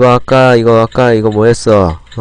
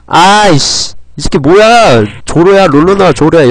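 higher, louder frustrated yelling; angry yelling; 5 semitones higher, 4 dB louder than usual. Real, not acted. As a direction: yell at the enemy. Frustrated at game enemy.

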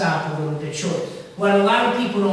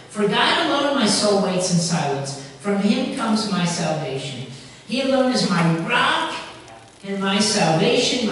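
louder, emphatic scripture reading; trusting psalm reading; 4 dB louder than usual. Retold or imitated. Preacher reading David's psalm to the congregation, trusting and emphatic. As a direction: proclaim the psalm with firm trust. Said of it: "just listen for the trust he has here".

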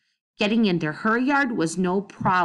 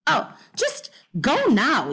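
higher, exasperated shout; yelled; 7 semitones higher than usual. Acted. Missus Trance yelling at the girls to leave, exasperated. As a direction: drive them off with a yell. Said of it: "yelled Missus Trance".

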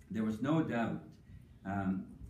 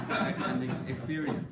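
laughing; 3 dB louder, much slower than usual. Real, not acted. Repeating punchline through laughter.

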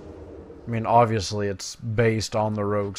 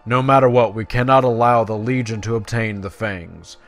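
lightly voiced, urgent quest-giver; earnest elf commander; 9 dB louder than usual. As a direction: read it as an elf leader rallying a champion. Reads quest dialogue aloud in character.

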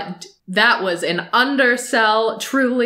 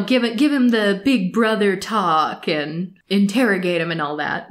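usual speaking voice

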